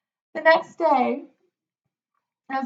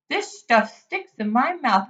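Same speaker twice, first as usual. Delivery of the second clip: complaining. Acted. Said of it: "complained the rat".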